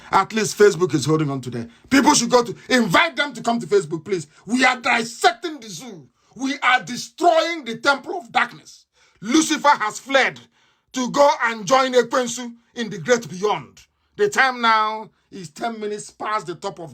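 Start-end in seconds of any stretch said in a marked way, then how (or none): 4.5-12.5 rally shout. Real, not acted. Preaching rally cry.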